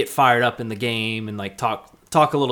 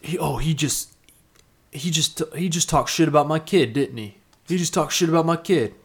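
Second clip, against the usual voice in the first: angry dad; 5 semitones higher than usual. Retold or imitated. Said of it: "He's like".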